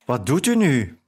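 mildly squeaked question; a touch of a startled squeak; lightly voiced little peep of a question. A narrator's reading. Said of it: "piepte ik".

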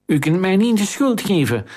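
high-pitched panicked shout. A narrator's reading. Accomplice shouts to the queen that he is not to blame, high. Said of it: "schreeuwde zijn met sieraden behangen medeplichtige".

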